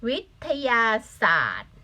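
"วิทยาศาสตร์" drawn out syllable by syllable; careful model reading. Shown as a demonstration. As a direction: read "วิทยาศาสตร์" out deliberately for the class. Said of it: "ฉะนั้นอันนี้อ่านว่า". (อ่าน "วิทยาศาสตร์" ช้าและชัดทีละพยางค์)

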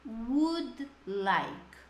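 "Would like" said slowly and carefully, each sound clear; pronunciation model. Shown as a demonstration. Teacher showing students the sound of "Would like", slow. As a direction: stress "Would" and glide into "like". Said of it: "o que pega aqui é a pronúncia".

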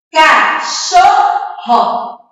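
"Cachorro" very slow and high, ca... chor... ro; teacher's slow syllable split of "Cachorro". Shown as a demonstration. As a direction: separate "Cachorro" into three ringing beats. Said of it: "separar as sílabas".

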